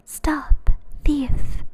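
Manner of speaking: whispered shout of the angry gardener; calling out. A narrator's reading. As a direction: call it out as a hushed yell. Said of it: "calling out".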